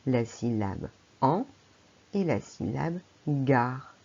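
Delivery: han, then gar, split apart; syllables spelled out. Shown as a demonstration. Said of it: "besoin également de deux syllabes".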